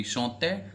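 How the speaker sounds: "chanter" ending in a clear "ay" sound; French pronunciation demo. Shown as a demonstration. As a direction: say "chanter" as shon-TAY, silent R. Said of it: "The pronunciation will be".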